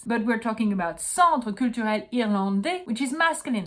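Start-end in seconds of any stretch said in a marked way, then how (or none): 1.0-2.9 "Centre Culturel Irlandais" in French, final S silent; correct French pronunciation. Shown as a demonstration. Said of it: "so we don't pronounce the S".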